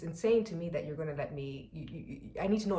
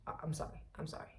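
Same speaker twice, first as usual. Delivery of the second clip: timid apology; 7 dB quieter, much faster than usual. Retold or imitated. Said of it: "I was like".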